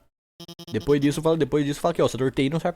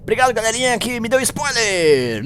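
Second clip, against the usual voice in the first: sarcastic thanks; 7 semitones higher than usual. Acted. Mock thanks to chat for spoilers.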